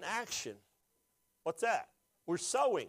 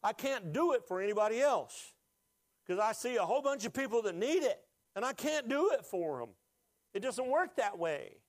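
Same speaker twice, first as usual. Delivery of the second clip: pushing through real tears in the throat; preacher overcome, pleading with the congregation; emotional; 5 semitones higher than usual. Real, not acted. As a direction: voice raised higher, choked up with feeling. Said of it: "The reason why I'm emotional".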